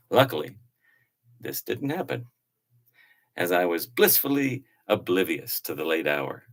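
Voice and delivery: animated, theatrical storytelling read; lively narration with swooping pitch; travel journal reading. Acted. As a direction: read your old journal like an adventure tale. Reads travel journal aloud.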